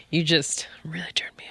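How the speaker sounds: teasing breathless whisper. Pretend. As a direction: whisper it close, half laughing. Teasing her partner.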